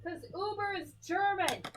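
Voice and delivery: put-on thick German accent; 'Cause Uber is German in a heavy German accent. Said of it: "speaking in full German accent".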